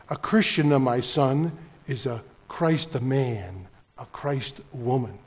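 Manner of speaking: lightly imitated Italian accent. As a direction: quote father with a touch of Italian accent. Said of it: "little Italian accent".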